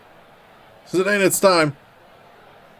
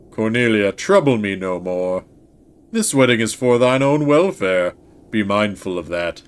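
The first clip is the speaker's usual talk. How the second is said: low stern king; 4 semitones lower than usual. Acted. Voicing the king father.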